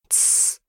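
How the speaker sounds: breathy hiss for silence; rabbit's nervous shush; whispered shush. A narrator's reading. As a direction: shush urgently, no voice. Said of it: "шепнул".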